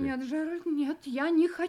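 soft, panicked no; frightened refusal. Acted. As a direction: resist him in terror. Wife refusing in fear.

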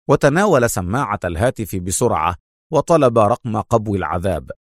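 ordinary delivery, nothing marked

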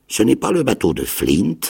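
"ce n'est pas le bateau de Flint" high and rising, castaway voice; castaway questioning. A narrator's reading. Castaway asks Jim anxiously, rising.

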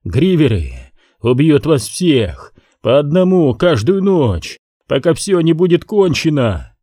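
rising raving cry; shouting. Acted. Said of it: "выкрикнул Галли".

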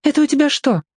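put-on high girl's alarmed question; girl spotting blood, alarmed; girl Lorka. A narrator's reading. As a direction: ask sharply, a girl's voice.

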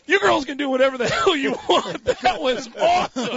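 high-pitched, giddy and half-laughing; hammed-up overjoyed approval; retold elation. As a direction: gush like you can't believe your luck. Elated after the encounter.

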